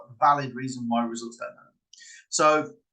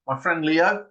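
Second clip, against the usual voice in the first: "Leo" pushed up and louder; emphasized name; 3 semitones higher, 4 dB louder, slower than usual. Shown as a demonstration. Trickster slipping Leo the lion into patter, emphasized. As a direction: land pointedly on "Leo" with a rising lift. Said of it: "you kind of emphasize certain words".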